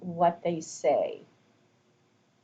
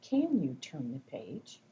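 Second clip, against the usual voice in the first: asking question; 3 semitones lower, 4 dB quieter, slower than usual. Shown as a demonstration. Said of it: "I'm not going to say".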